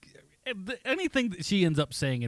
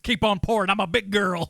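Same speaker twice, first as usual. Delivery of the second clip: a light put-on, louder tipsy-lady voice; half-hearted impression of a woman ordering more drinks; mock tipsy woman; 3 semitones higher, 5 dB louder than usual. Host mimicking Eva Mendes at the bar, a light, louder tipsy voice. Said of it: "she's just like".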